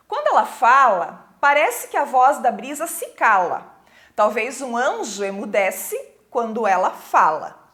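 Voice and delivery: lightly declaimed verse with pauses between lines; poem recitation. Acted.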